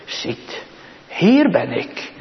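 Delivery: soft, slow, gentle words of the Lord; softly voiced Lord. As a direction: say it softly and slowly, as the Lord calling. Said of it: "En hij zegt het".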